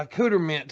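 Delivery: "accoutrement" as "a-cooter-mint"; mispronounced accoutrement. Retold or imitated. Host confirms the botched word, "accoutrement" as "cooter-mint". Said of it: "but he called it accoutrement".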